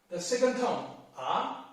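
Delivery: second tone on R. Shown as a demonstration. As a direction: let R climb upward. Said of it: "Let me take R as an example".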